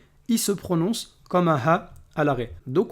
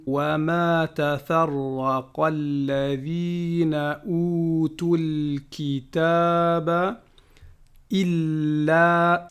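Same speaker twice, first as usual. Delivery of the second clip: slow measured chanting of the verse; Quran recitation; much slower than usual. Acted. Teacher reciting Surah Al-Bayyinah to students, chanted. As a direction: recite each word with care.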